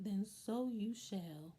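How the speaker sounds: slow, mock-haughty retelling; putting on airs. Michael Langdon grants him first turn, mock-haughty and slow. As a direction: imitate someone being all sedity, drawn out. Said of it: "trying to be all sedity".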